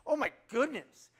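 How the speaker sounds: put-on high, loud girlish exclamation; little girl voice. Granddaughter Lily repeating words, a high girlish cry. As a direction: gush it like a toddler.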